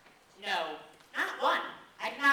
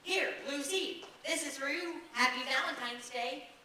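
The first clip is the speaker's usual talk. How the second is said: higher and brighter second try; higher, eager retry; 3 semitones higher than usual. Shown as a demonstration. Boy retrying his Valentine speech for Lucy, higher and eager. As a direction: pitch it up to sound keen. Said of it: "That doesn't sound right".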